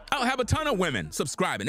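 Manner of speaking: ordinary delivery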